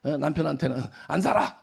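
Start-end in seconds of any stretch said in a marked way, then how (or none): 1.1-1.6 short, mildly acted marital outburst; half-hearted yell at a spouse; mock angry yell. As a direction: imitate a fed-up wife. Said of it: "맨날 소리 지르고".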